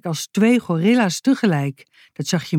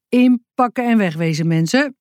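stern; 5 semitones higher than usual. Acted. Forest ranger sternly ordering the family to leave. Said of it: "zei hij streng".

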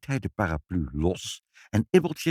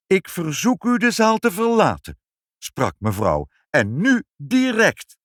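higher, louder, stately command; dignified voice; 9 semitones higher, 6 dB louder than usual. A narrator's reading. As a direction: order him out with dignity. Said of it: "een waardige stem".

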